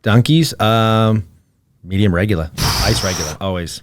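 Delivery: low Boston accent, Rs dropped; easy Boston-accented "regulah"; New England accent. Shown as a demonstration. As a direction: order coffee like a New Englander. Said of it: "in your best New Englander accent".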